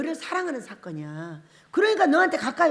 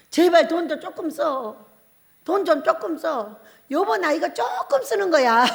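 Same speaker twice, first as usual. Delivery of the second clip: nagging spouse; 3 semitones higher, 3 dB louder than usual. Retold or imitated. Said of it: "잔소리 무지하게 해버려". (살짝 흉내 낸 부부의 돈 잔소리)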